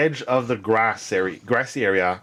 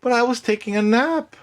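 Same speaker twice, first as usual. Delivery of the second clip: complaining swan; 9 semitones higher than usual. Acted. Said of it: "Featherine's like".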